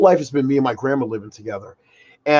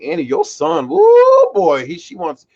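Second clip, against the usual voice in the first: playing the store lady telling his mom about him; gossiping customer service lady; 2 semitones higher than usual. Store lady gossips to his mom about him, excited. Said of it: "She's just like".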